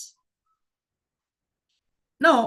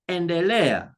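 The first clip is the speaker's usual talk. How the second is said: endelea with stress on LE; endelea, LE prominent, falling on A; stress on second-last syllable; 2 semitones lower than usual. Shown as a demonstration. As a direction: lean on LE in endelea. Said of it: "going to put a stress there".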